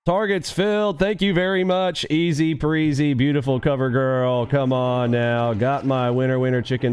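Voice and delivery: high, gleeful victory lap; riding high after hitting the target; excited gloating. Real, not acted. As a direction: crow over the winning trade in a sing-song. Gloating after a winning trade.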